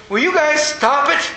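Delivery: high, exasperated mock plea; imitating a mother at her wits' end; panicky. Mother begging son and nephew to stop, mock panicky. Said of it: "she'd get more panicky".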